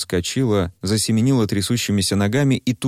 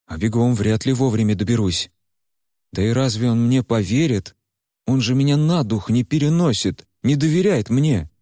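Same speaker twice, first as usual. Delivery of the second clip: put-on a lightly raised, earnest young man's voice; Куйгарош; 4 semitones higher than usual. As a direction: talk to her gently but firmly. Куйгарош refuses. (спокойный, серьёзный голос Куйгароша)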